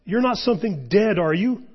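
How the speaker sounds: high, loud panicked pleading; frightened boy's near scream, gradually subsiding; almost screaming. A narrator's reading. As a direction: plead in terror, easing into a wail of self-pity. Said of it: "almost in a scream".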